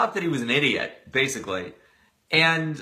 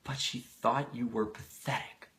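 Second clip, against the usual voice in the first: hushed; 6 dB quieter than usual. Acted. Charlie's hushed reply.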